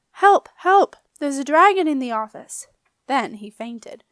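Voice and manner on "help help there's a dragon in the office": high, very loud panicked yell. A narrator's reading. Foxy bursting in about the dragon, a panicked high yell. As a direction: scream for help in terror. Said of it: "white-faced and yelling".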